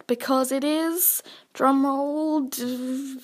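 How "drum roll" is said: mock drum roll. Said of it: "I can't drum roll".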